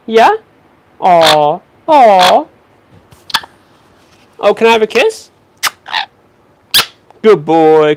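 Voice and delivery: high, loud, bouncy talk to a parrot; excited pet talk. Acted. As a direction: hype up the bird like it's a party. Hyping up the parrot for walnut.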